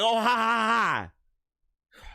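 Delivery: slow, drawn-out fake laugh; mock laugh. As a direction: spell out each ha slowly, in mock amusement. Imitates reaction to the naughty object.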